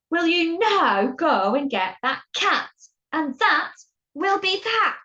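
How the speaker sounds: slow, emphatic storybook command; exasperated order. Acted. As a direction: spell out the order word by word. Exasperated boss repeats his order.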